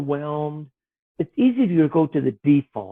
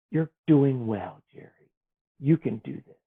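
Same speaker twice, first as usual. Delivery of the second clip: gentle reassurance; 3 semitones lower, 3 dB quieter than usual. Retold or imitated. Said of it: "you would hear that voice inside".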